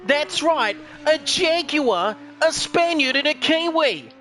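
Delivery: hammed-up sports caller, each phrase drawn out; Danny Morrison. Commentator hypes the Spaniard and Kiwi, cricket-caller style. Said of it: "Sounds a bit like Danny Morrison".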